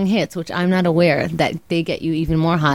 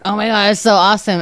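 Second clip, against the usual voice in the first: stoned delight; 4 semitones higher, 5 dB louder than usual. Retold or imitated. Acting out her stoned delight.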